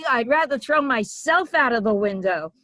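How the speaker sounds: high, loud scandalized mother; indignant mother. Retold or imitated. Mother refusing the husband, loud outraged squawk. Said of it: "She said".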